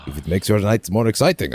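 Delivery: lightly hammed-up game dialogue, a little livelier; performed line reading. Streamer tries reading the game's lines aloud, lightly acted. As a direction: read it out as a character's line. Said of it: "I guess I should try to read those".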